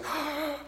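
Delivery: high, soft intake of breath; quick dismayed gasp; startled gasp. Acted. Reacting to the unwelcome prompting.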